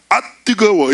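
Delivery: loud, high yelp of heat; mock cry of heat. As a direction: yelp as if burned by the fire. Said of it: "이러면서 막 찬양 인도를".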